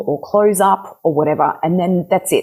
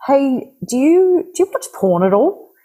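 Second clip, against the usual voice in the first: casual question; 9 semitones higher than usual. Shown as a demonstration. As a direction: keep it breezy, don't tiptoe around it. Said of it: "but it's, it's more casual".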